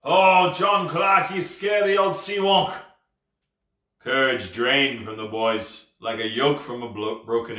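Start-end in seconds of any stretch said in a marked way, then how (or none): 0.0-2.7 loud pirate call, easing off; bellowing. Acted. Ghost pirate calls the tavern keeper by name, loudly. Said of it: "he bellowed".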